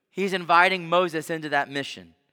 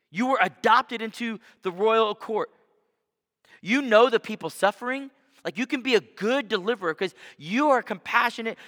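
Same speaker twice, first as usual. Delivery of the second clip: higher and louder, a fired-up motivational push; rousing pep talk; 6 semitones higher, 4 dB louder than usual. Retold or imitated. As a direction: pump Moses up like a coach hyping his star. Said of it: "We would have said".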